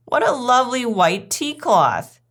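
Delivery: high, effusive compliment; delighted guest's exclamation; gushing admiration. Acted. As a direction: admire it with great politeness. Duchess admires the tea table.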